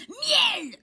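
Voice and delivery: high, loud shout; loud cry. A narrator's reading. Bear decides and cries his wish, high shout. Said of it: "il crie".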